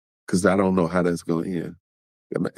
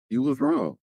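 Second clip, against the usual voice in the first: much higher, squeaky, softer; squeaky high mock; 3 dB quieter than usual. Shown as a demonstration. Vlogger mocking the cheater, squeaky high voice.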